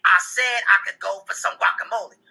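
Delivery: imitating a wife insisting crossly; real loud insistence. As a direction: repeat it pointedly, word by word. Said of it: "and then get real loud and say".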